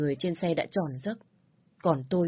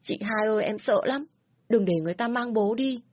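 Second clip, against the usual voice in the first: frightened little brother, acted, high-pitched; khóc nức nở; 5 semitones higher, 3 dB louder than usual. A narrator's reading. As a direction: plead to a big sister in a high, scared voice. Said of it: "khóc nức nở". (giọng em trai sợ hãi, cao, diễn như sắp khóc)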